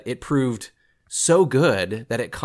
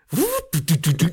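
high whoosh into typewriter clatter; old computer processing noise; 7 semitones higher than usual. Acted. Bat computer processing in two facets, mechanical clatter. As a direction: imitate a clattering roomful of processors. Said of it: "you could hear the typewriter going kind of thing".

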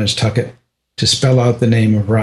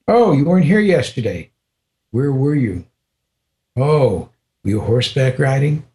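higher, playful mock questioning; teasing guru; 3 semitones higher than usual. Guru teasing the American visitor, playfully higher and mocking. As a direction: tease him like a guru having fun. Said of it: "he started teasing me".

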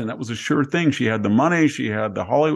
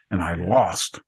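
sour whisper; 3 semitones lower, slower than usual. Retold or imitated. Imagined Hillary whispering that she lost. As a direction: drop to a whisper on the loss.

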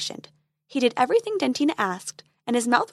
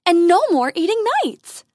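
fairy voice; 8 semitones higher, 8 dB louder than usual. Acted.

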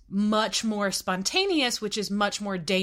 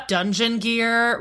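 laughing; 3 semitones higher, 4 dB louder, slower than usual. Real, not acted. Laughs while picturing scene.

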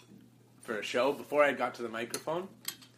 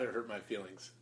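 whispering; 2 semitones lower, 8 dB quieter than usual. Real, not acted. Hurt feelings told softly.

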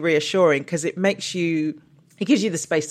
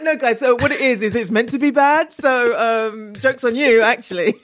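laughing mock defence; 5 semitones higher than usual. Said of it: "But it's like".

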